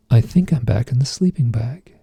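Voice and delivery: calm, understated retold answer. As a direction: answer placidly, reenacting a trance reply. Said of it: "I very calmly say".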